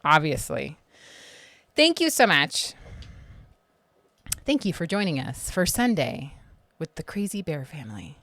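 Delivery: talking through a mouthful of rinse; words around liquid swishing; swishing mouthwash. Real, not acted. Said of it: "Sorry, I'm swishing around trying to numb my gums".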